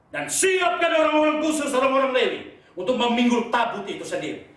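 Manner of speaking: high, forceful divine orders; commanding preaching. Acted. Preacher voicing God's orders to Joshua, commanding.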